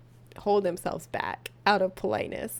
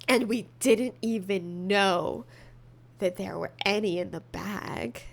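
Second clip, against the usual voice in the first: sultry voice; 3 semitones lower than usual. Acted. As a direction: whisper the story like a thriller. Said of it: "What is this sultry voice?".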